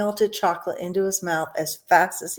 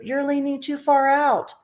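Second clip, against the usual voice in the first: high warning shout; father shouting; 8 semitones higher than usual. A narrator's reading. Father warning his son at the river's edge. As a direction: warn the boy sharply. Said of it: "shouted Mister Gloop".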